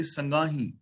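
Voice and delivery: ਸੰਗਾਹੀ with a nasal final "heen"; ਸੰਗਾਹੀ ending in a nasal long "ee"; nasalised ending. Shown as a demonstration. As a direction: nasalise the last vowel of ਸੰਗਾਹੀ. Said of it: "ਹਾਹੇ ਨਾਲ ਬਿੰਦੀ ਲਾਵਾਂਗੇ".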